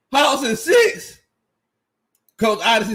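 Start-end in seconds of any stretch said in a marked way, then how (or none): 0.1-1.2 slow, high, stretched disbelief on six; incredulous repeat. Shown as a demonstration. Streamer rereading a chat prediction, slow and high with disbelief. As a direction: drag it out like you can't believe it.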